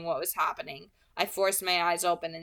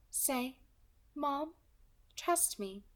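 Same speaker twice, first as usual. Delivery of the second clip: light, higher, smooth villain voice; pleasant soft alto; 7 semitones higher, 4 dB quieter, much slower than usual. Acted. Kidnapper calmly threatening the girl on the phone, pleasant and light. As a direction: menace wrapped in a pleasant voice.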